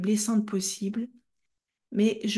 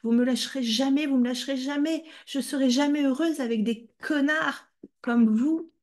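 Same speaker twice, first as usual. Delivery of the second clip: loud, high, desperate screaming; mother screaming while hitting her child; screaming in rage; 7 semitones higher, 4 dB louder than usual. Retold or imitated. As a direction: scream it out at everyone. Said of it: "où elle criait".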